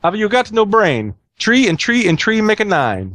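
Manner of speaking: high, singsong mock-Italian voice; hammy Italian accent, drawn out; joke Italian accent. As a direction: play the exasperated Italian of a joke. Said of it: "says the Italian".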